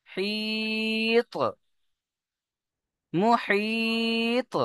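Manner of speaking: মুহিত chanted slowly and high, with the final ত bounced; qalqala recitation. Shown as a demonstration. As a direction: intone মুহিত long, then knock the ত out. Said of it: "ত্বকে কলকলা করতে হবে".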